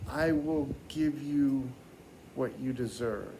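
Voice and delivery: Mother Nature. Acted. Mother Nature pronounces judgement.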